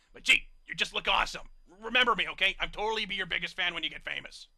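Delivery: loud, gushing excitement in the brute voice; star-struck fanboy. A narrator's reading. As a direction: fawn over your hero. Hokey Smokes freaks out, star-struck.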